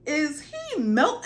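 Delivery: slow, high incredulous ask; can't believe what she's seeing; mock stunned disbelief; shocked question. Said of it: "I was like".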